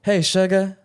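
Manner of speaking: high, sweet mock Southern grandma; lightly voiced Southern grandma. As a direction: greet like a doting old Southern granny. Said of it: "I could do, like, a Southern grandma".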